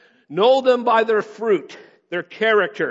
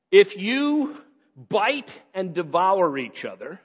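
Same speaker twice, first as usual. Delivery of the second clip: slow, deliberate read; slower than usual. Shown as a demonstration. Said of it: "I don't know if you've ever been".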